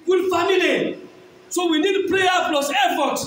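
emphatic, declamatory sermon voice; forceful preaching. Real, not acted. Preacher urging parents to take education seriously, forceful preaching. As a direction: preach it hard to the congregation.

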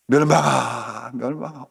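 drawn-out searching call; calling through the village. Acted. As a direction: call slowly for a child, fading on the repeat. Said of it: "온 마을을 돌아다니면서". (길게 늘여 부르는 소리)

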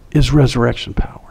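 hushed, breathy reveal of a secret; whispered awe. Acted. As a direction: lean in and whisper it. Reveals the Spirit's words.

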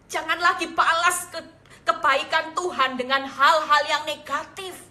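emphatic sermon appeal; fervent preaching. Real, not acted. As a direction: urge the congregation on with force. Preaches at full force.

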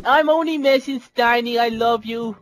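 soft sweet-talk. Pretend. Gamer sweet-talking teammate Steiny after the insults. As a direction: coax her back gently.

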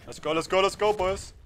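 hyped-up cheering at the team; frat bro. Real, not acted. Hyping team after a kill.

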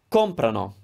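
COMprano, stressed on the first syllable; stress before the ending. Shown as a demonstration. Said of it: "put the stress somewhere before".

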